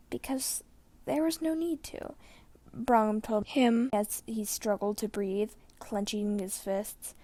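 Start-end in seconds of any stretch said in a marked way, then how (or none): 0.1-2.1 whispered, strained reply; barely enough breath to answer; weak old man. A narrator's reading. Brom answers weakly.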